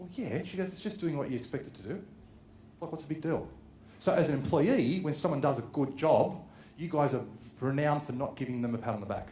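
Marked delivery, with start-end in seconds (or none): 0.7-3.5 put-on deadpan delivery, quieter. Retelling what a woman replied during a conversation, imitating her deadpan reply.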